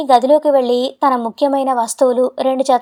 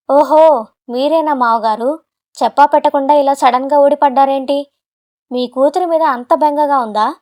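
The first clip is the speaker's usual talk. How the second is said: mildly scornful, sneering son-in-law; arrogant. Acted. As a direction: talk down to the father-in-law. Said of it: "చాలా పొగరుగా". (పొగరుగా, ఎగతాళిగా)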